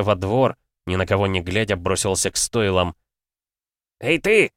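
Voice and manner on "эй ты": high loud bark. A narrator's reading. Young lord barking at a groom, loud bark. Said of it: "рявкнул он на подвернувшегося конюха".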